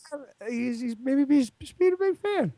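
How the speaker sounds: rising at every phrase end; uptalk. Real, not acted. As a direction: ends lifting up like questions. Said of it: "stop ending everything with an upward inflection".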